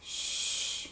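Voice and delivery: whispered shush. Acted. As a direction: hush them without a sound. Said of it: "Mama said".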